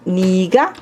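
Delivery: "niga" said with an i sound; pronounced niga. Shown as a demonstration. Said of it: "ele às vezes é pronunciado". ("niga" pronunciado com i)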